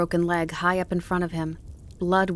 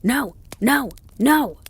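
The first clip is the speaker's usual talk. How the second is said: high, loud howling bursts; excited refusal; 7 semitones higher, 8 dB louder, slower than usual. A narrator's reading. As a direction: throw each word back excitedly. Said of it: "said the dog excitedly".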